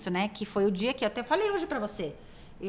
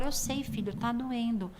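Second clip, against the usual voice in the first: put-on soothing a child. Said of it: "com o pequenininho eu falo".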